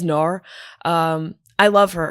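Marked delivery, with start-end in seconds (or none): 0.0-0.4 "nar" with the New Zealand vowel, the way Rose says it; Rose's New Zealand "nar"; New Zealand accent. Retold or imitated. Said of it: "She says".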